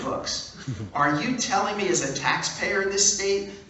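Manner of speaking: hammed-up taxpayer outrage on the phone; outraged caller. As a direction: play a furious taxpayer ranting. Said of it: "I began to scream at him".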